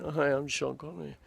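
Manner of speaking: a lightly voiced young Connery greeting; young Sean Connery. Shown as a demonstration. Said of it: "young Sean Connery".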